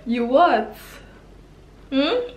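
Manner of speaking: incredulous outburst, half laughing; stunned disbelief. Real, not acted. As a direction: hit it like you can't believe your ears. Disbelief at his commitment excuse.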